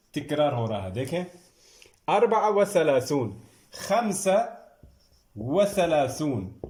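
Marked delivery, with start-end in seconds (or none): 3.7-6.6 teacher calling the next number; called out number. Shown as a demonstration. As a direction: announce the number, then dictate slowly. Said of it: "یہ ہو گیا thirty five".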